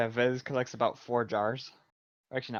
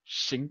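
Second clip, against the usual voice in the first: imitated shard noise; 2 semitones higher than usual. Imitates glass shard being pulled out.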